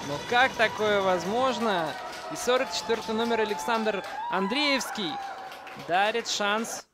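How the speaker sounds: excited. Real, not acted. Stunned reaction to a goal.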